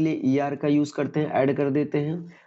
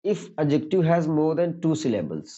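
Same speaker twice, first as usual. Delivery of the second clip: slow dictation; 3 semitones higher, much slower than usual. Shown as a demonstration. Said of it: "teacher reads the rule slowly".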